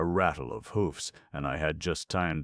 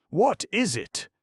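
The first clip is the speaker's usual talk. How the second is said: high, louder terrified question; shrill terrified cry; 7 dB louder than usual. Acted. A sitter outside the door, a terrified cry. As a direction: cry out in shock.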